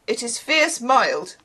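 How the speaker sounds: slow attempt at an Irish accent; badly faked Irish lilt; ridiculous Irish accent. Shown as a demonstration. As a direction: try Irish, slowly and unconvincingly. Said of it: "It sounds ridiculous when I say it".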